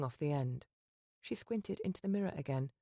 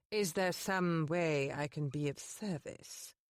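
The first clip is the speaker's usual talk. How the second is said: slow, grave housekeeper; stern housekeeper confronting the lady; solemn intoning; slower than usual. Acted. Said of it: "she solemnly intoned".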